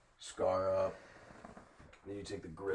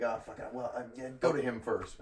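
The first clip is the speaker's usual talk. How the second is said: mildly mocked flustered customer; stumble, then pass the turn on; imitated short-circuiting; 3 semitones higher than usual. Customer not ready to order, imitated mild fluster. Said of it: "he just starts fucking spaz".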